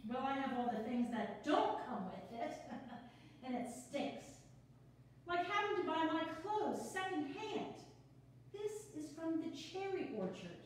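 quick, bubbly, a little flustered; nervous newcomer rattling on; nervous chatty woman. Acted. The speaker reading her part.

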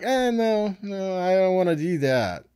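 high, whiny mock refusal; hammed-up reluctant no. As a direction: brush it off like a stubborn child. People refusing to repent, acted.

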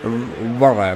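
mock English "water", low in pitch; English pronunciation. Shown as a demonstration. Showing viewers how English differs from Spanish, mock English accent. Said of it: "英語みたいになんかちょっと".

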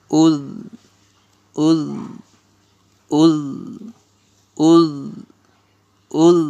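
"udh" with a held, voiced dhal; "udh" repeated singly, with pauses; drilled "udh". Shown as a demonstration. Teacher shows alif pesh dhal jazm, drilling "udh". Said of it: "আলিফের পেশ জালের জজম".

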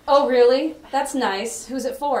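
mock-casual husband asking; imitating husband. Retelling her husband's reply, lightly voiced husband. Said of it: "And he goes".

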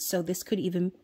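hiccuping mid-sentence; hiccups. Real, not acted. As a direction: catch a hiccup in the words. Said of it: "oh gosh, I'm getting the hiccups".

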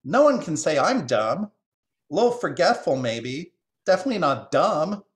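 high, loud bird protest; affronted jay. Acted. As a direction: deny it indignantly in a high voice. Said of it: "rigid with surprise".

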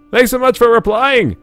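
put-on high valley girl voice; chirpy high read of the message. Reading Katie's chat line.

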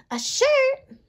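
very high surprised little voice; tiny bug baffled by the idea; squeaky surprised microbe. Acted. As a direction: squeak it out in disbelief. Ray reacts.

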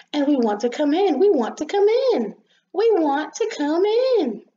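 high, loud, chanting little voices; insistent pleading. Acted. Rain and sun beg the rosebud, insistently.

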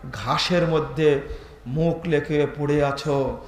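low, soft, slow grieving; tearful lament. Retold or imitated. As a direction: mourn gently over the fallen companion, no real sobbing. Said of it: "চোখ দিয়ে টস টস করে পানি পড়ছে". (নিচু, ধীর, শোকভরা গলায় বিলাপ)

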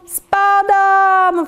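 high, drawn-out falling cry; yelling. A narrator's reading. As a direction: yell it as you drop. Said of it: "wrzasnął".

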